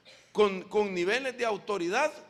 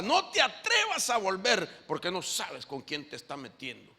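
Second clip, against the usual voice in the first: threatening. Acted. Victorious believer threatening a fleeing demon, threatening. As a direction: warn off a beaten demon forcefully. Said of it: "hasta lo amenaza".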